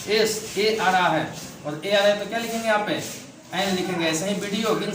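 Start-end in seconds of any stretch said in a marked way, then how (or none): 0.1-1.3 slow sounding out. Shown as a demonstration. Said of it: "तो इसका उच्चारण करेंगे".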